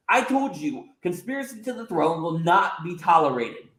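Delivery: furious at being interrupted; indignant outrage. Acted. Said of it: "Del Rey looks disgusted at Shirai".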